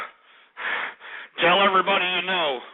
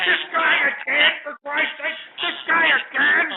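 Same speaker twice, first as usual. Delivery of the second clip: exasperated; 10 semitones higher than usual. Real, not acted. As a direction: throw up your hands in disgust. Host exasperated by repeat caller.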